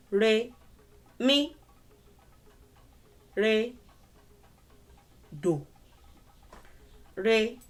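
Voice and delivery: Re, mi, re, dò chanted as tones; tone names. Shown as a demonstration. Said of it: "has to align with this".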